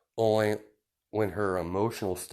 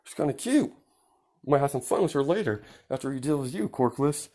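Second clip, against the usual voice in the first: sneering bully; 5 semitones higher than usual. Acted. Bully taunting the sister.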